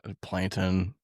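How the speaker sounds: lightly voiced little cartoon villain; Plankton voice. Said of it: "Plankton from SpongeBob".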